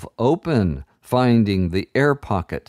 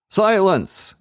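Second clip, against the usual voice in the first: much higher commanding shout; 11 semitones higher than usual. A narrator's reading. Enchanter shouting the children down. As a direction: silence the room. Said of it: "shouted the enchanter again".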